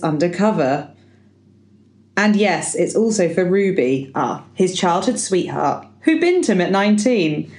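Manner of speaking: lively read-aloud birthday speech. Acted. Podcaster reading out the Roger acrostic, performed speech delivery. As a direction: present it to the party, phrase by phrase.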